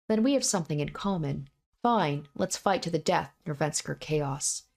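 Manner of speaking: a hint of dread in a doomed young man; lightly voiced frightened hero. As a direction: read the hero's inner terror with understated fear. Reading a visual novel monologue.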